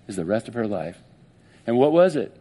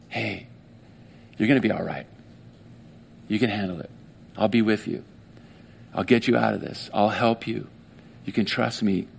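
gentle reassurance; 3 semitones lower than usual. Acted. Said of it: "whispering their name".

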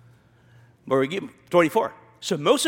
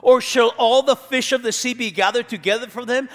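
sarcastic; 3 semitones higher than usual. Retold or imitated. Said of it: "I hear sarcasm in his voice".

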